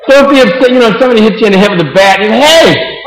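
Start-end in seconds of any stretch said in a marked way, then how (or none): 2.3-3.0 sudden high indignant hey; mock startled yelp. Someone hit with a bat, crying out in mock shock. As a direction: yelp as if just hit on the head.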